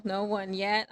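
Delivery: "yet" leaned on as a caveat; No one YET, pointedly; stress on YET. Real, not acted. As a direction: put the emphasis on "yet". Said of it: "Emphasis on the yet".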